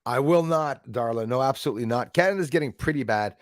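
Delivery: usual speaking voice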